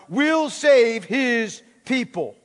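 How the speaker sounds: "will save his people" firmly accented; stress on WILL SAVE. Shown as a demonstration. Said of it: "Emphasis this time on".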